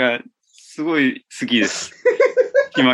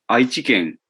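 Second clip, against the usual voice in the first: exit gag; 5 semitones lower, slower than usual. Retold or imitated. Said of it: "島木ジョージが去っていく時のギャグ".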